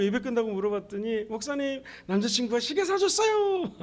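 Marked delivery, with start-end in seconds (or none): 1.2-3.7 higher-pitched, mildly gushing imitation; lightly voiced young woman. Young woman telling pastor of boyfriend's gift, lightly imitated gushing. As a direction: show off the gift in a high voice.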